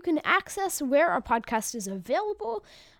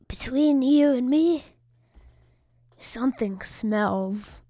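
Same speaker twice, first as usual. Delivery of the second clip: whispering; slower than usual. Acted. Punchline of a joke.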